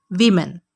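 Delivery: वीमेन with "wi", WIM-in; वीमेन, first vowel like "wi"; correct pronunciation. Shown as a demonstration. Teacher modelling women correctly. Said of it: "असल में लफ्ज़ है".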